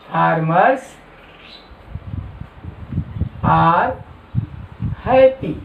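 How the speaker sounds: "Farmers", "are", "happy" with long gaps between; word-by-word dictation. Shown as a demonstration. Teacher giving the English translation to note down, word by word.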